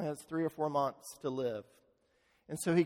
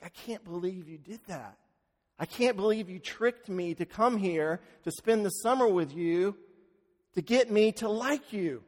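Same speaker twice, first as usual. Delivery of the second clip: rising from hushed to higher, choked protest; weeping son to the father who tricked him, rising upset; tearful outburst; 3 semitones higher than usual. Retold or imitated. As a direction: let the hurt build as you protest.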